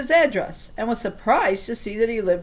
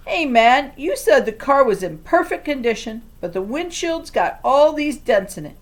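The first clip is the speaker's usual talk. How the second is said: loud, higher annoyed complaint; 5 semitones higher, 5 dB louder than usual. A narrator's reading. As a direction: complain to the seller. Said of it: "the guy said".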